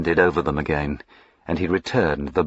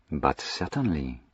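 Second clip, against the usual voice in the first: polite; 5 semitones lower, 10 dB quieter than usual. A narrator's reading. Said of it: "said Jack politely".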